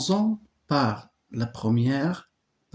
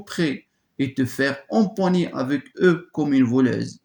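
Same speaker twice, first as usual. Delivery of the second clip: scornful reproach; 2 semitones higher, 4 dB louder than usual. Acted. Antigone scorns her sister.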